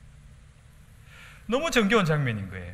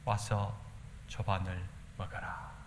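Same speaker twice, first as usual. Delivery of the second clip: gentle Jesus; 6 semitones lower, 10 dB quieter, slower than usual. Acted. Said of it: "이 본문을 읽다가".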